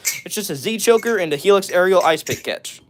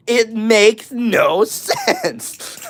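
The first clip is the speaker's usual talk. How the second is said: drawn-out, higher, incredulous protest breaking into a laugh; mock exasperation; 5 semitones higher, much slower than usual. Real, not acted. Streamer baffled by random viewer names, exasperated and laughing. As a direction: stretch each word in laughing disbelief.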